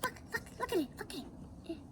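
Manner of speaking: put-on high squeaky kids; lightly voiced delighted children; kids' voices. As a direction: chirp it like excited little kids. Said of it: "They're all like".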